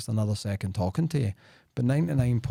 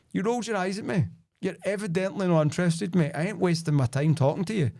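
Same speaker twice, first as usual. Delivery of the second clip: firm telling-off; 5 semitones higher than usual. Retold or imitated. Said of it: "And I actually says to the guy".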